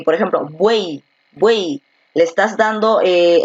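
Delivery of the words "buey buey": "buey" said slowly with its final y as a clear vowel i; buey ending in an i sound. Shown as a demonstration. Teacher showing students how "buey" ends with i. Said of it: "lo pronuncias como I".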